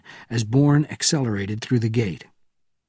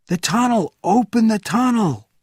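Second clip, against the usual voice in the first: higher, louder cry building; more desperate call; 12 semitones higher, 5 dB louder than usual. Acted. Frantic crowd member crying out to open the tunnel, higher and louder. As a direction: cry out with rising panic. Escalating cries.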